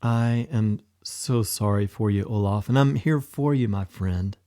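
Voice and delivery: kind whisper. Acted. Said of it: "Thor whispered kindly".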